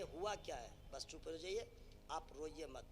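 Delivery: lightly voiced wife comforting her husband; consoling wife. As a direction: gently coax him out of crying. Acts wife consoling crying husband.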